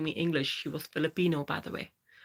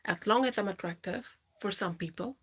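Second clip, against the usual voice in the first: pitched up and held there, a performed voice; higher put-on voice; 5 semitones higher than usual. Chatting to stream viewers about her voice, in a higher put-on voice. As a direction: keep the voice clearly higher than her own throughout. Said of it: "I'm gonna go back to my own voice".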